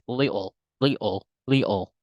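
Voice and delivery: little split into "li-ol", no T; British little with the T dropped; British-style little. Shown as a demonstration. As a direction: break little in two without a T. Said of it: "when you prefer to British accents".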